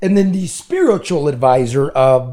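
echoey bad mic sound; big hall echo. Real, not acted. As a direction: voice ringing in a big room. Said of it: "do I sound echoey?".

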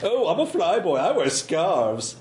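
drawled mock flyboy, very slow; mocking fly boy. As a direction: tease like a vain flyboy. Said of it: "Montana making fun of Rip".

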